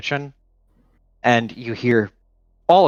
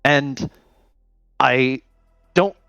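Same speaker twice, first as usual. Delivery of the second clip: nervous Hijack; 5 semitones higher than usual. Acted. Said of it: "anxious and, like, excited somehow".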